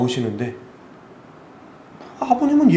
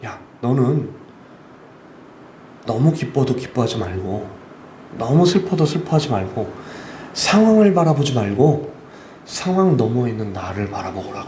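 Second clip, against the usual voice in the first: measured, lower voice of God; God's voice, retold; 4 semitones lower than usual. God teaching the missionary a lesson, measured retold voice. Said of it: "하나님이 저한테 한 가지 교훈을 주시는데".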